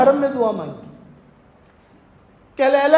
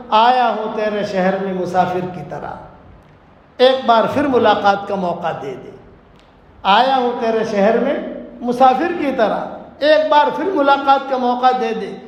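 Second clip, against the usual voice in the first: lower, measured poetic recitation; reciting a couplet; 3 semitones lower than usual. Acted. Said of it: "ایک شعر پڑھتا ہوا آیا".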